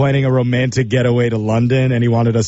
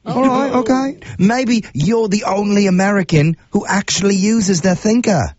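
put-on British accent; 6 semitones higher than usual. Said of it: "use my absolute worst British accent".

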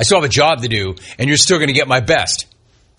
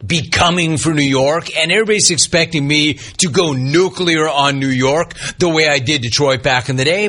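ordinary talk

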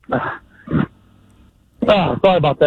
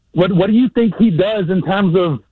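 out of breath. Real, not acted. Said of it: "Why are you so out of breath?".

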